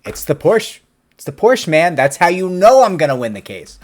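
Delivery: mock-confident client; eager client. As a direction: sell it like the Porsche wins the case. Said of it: "they're like".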